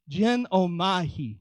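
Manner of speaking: Genomai drawn out slowly, syllable by syllable; careful Greek pronunciation. Shown as a demonstration. Preacher repeating a Greek word, Genomai said slowly and carefully. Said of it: "I'm gonna try and say it".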